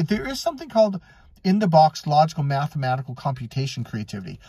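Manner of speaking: normal talking voice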